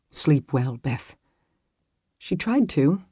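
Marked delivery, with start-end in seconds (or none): 0.1-1.2 tender. A narrator's reading. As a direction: say it gently with a smile. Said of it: "He offered her a tender smile".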